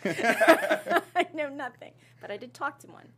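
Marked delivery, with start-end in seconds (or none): 0.0-1.9 loud, slow, put-on proclamation of I know nothing; drawn-out mock declaration. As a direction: stretch every word loud and slow like a comic character. Same line redone as a joke.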